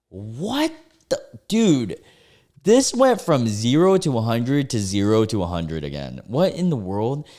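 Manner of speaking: can't believe what they just read; real flabbergasted reaction; stunned disbelief. Real, not acted. Stunned by the rant.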